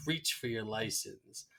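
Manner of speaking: slow, low, quiet order; measured, menacing police command; cop giving orders. Retold or imitated. Retold cop with gun giving orders.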